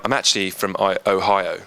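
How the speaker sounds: mock Ohio accent; fake American accent. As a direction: pretend to be American, badly. Jokingly fakes being American.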